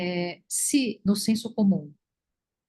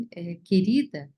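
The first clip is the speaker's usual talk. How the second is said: slow, fond "querida" as a term of endearment; affectionate querida. Shown as a demonstration. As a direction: stretch out "querida" slowly and fondly. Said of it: "querida tem uma entonação".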